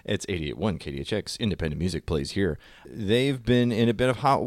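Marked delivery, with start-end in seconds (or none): 0.0-2.6 a quiet DJ station ID; radio tagline. Shown as a demonstration. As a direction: read it like a back announce. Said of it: "started to do the tagline".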